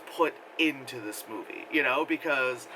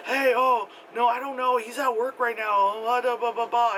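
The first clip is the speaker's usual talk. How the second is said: mock brother; 7 semitones higher, 3 dB louder than usual. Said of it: "and he's like".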